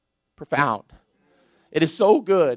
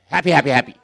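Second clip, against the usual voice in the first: repeat on request; 4 dB louder, much faster than usual. Shown as a demonstration. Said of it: "say it again".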